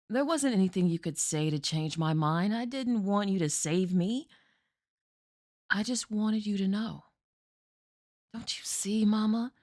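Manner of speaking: grave stage monologue of a daughter to her mother; desperate daughter Jessie. Acted. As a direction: make Mama finally understand. Performs Jessie's monologue from Night Mother.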